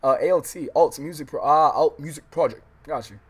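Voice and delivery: shouted real excitement; excited thanks. Real, not acted. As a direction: blast your gratitude to the donor. Thanking a donor on stream.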